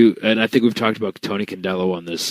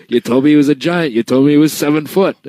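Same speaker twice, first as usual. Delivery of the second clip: Tony's complaint; 3 semitones higher, 4 dB louder than usual. Retold or imitated. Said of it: "He goes, he goes".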